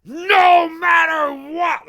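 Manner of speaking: high, loud and slow, dragged-out scream; imitating Chucky's livid yell. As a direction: stretch each word in fury. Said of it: "the way he says that".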